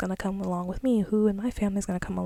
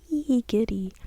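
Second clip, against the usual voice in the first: put-on childlike giddy squeal; 3 semitones higher, 4 dB louder than usual. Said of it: "really just childlike".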